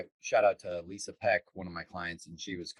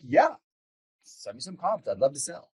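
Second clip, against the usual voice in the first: imitating an eager seller; 7 semitones higher than usual. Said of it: "one was like".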